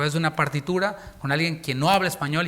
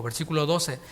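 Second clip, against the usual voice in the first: normal talking voice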